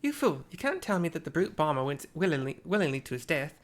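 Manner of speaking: angry rebuke. Acted. Angry character rebukes Retsara.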